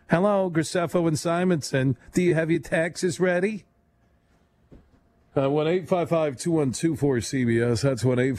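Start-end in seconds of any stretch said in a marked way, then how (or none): 0.1-3.6 raised receptionist greeting. Pretend. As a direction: answer the phone like an office receptionist. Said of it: "we sound like a bad accounting firm".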